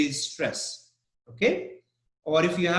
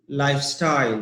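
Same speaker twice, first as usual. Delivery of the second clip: "lifestyle" with the beat on life, style falling; stress on LIFE; faster than usual. Shown as a demonstration. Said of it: "the first part".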